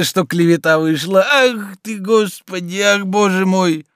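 lightly voiced old servant, high and delighted; a hint of a fussy old manservant lamenting; the old servant recalls the gossip, lightly voiced and high. Zakhar rejoices and confesses.

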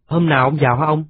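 put-on high, eager little boy's voice; a child begging his grandfather to come back; small boy pleading. Grandson asks grandfather when he'll return, high and eager.

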